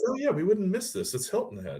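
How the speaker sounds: high-pitched, breezily keen retold quote; eager players. Players from other clubs at grand opening, eager.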